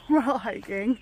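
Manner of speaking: usual speaking voice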